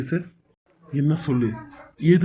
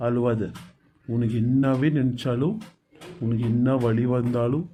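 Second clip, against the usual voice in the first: tender comfort. Acted. Husband comforting crying wife.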